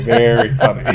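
high, laughing through the words. Acted. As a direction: say it while cracking up. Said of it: "Very funny, Sherry".

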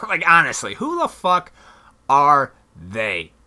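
mocking laugh at the "they" in "timing's everything"; laughing disbelief. Real, not acted. Repeats the question, laughing.

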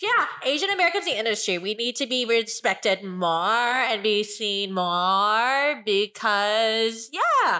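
put-on a small child making a speech; five-year-old voice. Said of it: "'Cause she sounds like she's five".

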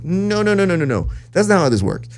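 high, fast protesting no no no; flustered refusal. Retold or imitated. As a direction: wave off the fan in disbelief. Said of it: "And I was like".

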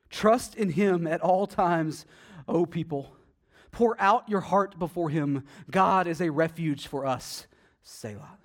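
slow, solemn psalm reading; measured reverent recitation; scripture reading. Acted. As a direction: read it out slowly like a prayer. Reads psalm aloud.

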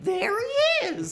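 slow, breathy whispered glee; gleeful whisper. Retold or imitated. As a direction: whisper it with a giggle.

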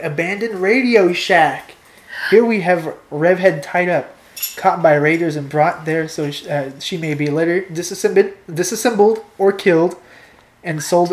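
animated reading of an adventure; story narration. A narrator's reading. Reading a choose-your-own-adventure to co-host, story narration. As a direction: set the scene with emphatic words.

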